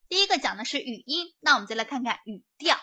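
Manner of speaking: 语调 set apart and stressed at the end. Shown as a demonstration. Teacher showing students how to make a key word stand out, stress on 语调. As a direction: lean on the key word 语调, drawing it out. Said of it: "我重点强调的是什么呀？".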